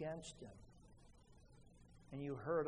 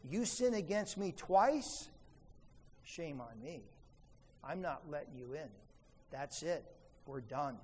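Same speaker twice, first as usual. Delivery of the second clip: stubborn grudge quote. Retold or imitated. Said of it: "they say".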